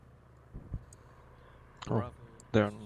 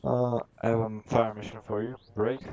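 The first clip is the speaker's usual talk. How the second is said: clipped military radio voice; radio call. Shown as a demonstration. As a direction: read it like a radio net call. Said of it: "repeat of radio call".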